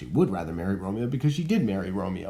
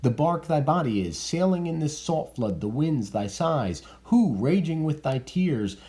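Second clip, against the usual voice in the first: reading Lord Capulet; 8 semitones higher than usual. Acted.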